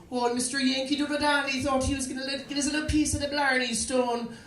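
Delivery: high-pitched mocking mimicry, quick start; grumbling queue voice. Someone behind him in line grumbling about the tourist, high mocking voice. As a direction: mimic a complainer in a high, put-on voice.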